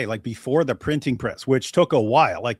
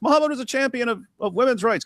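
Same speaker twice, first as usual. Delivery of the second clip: mocking preacher voice; 9 semitones higher, faster than usual. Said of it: "Complete idiotic nonsense".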